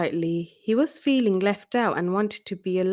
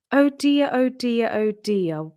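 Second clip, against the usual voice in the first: wailing; 3 semitones higher than usual. Acted. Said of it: "Peter wailed".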